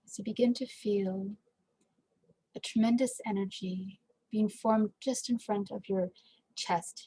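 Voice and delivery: measured meditation guide with long pauses; guided meditation. Acted. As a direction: gently guide listeners, pausing between phrases.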